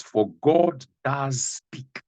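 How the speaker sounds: each word drawn out slowly; slow emphatic reading. Shown as a demonstration. Preacher to congregation, slow and weighty. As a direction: weigh every word of the verse. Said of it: "Listen to this again".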